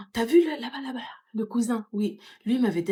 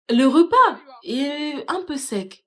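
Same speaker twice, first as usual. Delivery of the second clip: fussy guest; 5 semitones higher, 4 dB louder, much slower than usual. Acted. Mock guest at a wedding.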